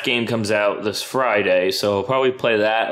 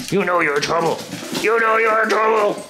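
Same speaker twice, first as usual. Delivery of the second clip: mock scolding pet voice; 6 semitones higher than usual. Mock scolding dog, laughing.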